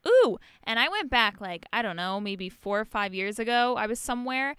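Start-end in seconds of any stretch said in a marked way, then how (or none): 0.1-0.4 high, loud little "ooh"; quick mock squeal of interest; retold delight. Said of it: "I was like".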